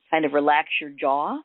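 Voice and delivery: unhurried meditation guide with long pauses; gently walk them through it, leaving room to breathe; guided meditation. Acted.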